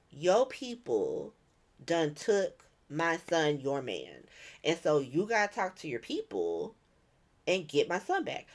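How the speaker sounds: low, slow, deliberate demand; grave demand. Retold or imitated. Warlord telling Lucas to get his son back, slow and grave. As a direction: imitate a measured, heavy accusation.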